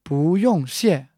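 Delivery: slowed teaching repeat. Shown as a demonstration. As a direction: draw it out so learners hear each tone.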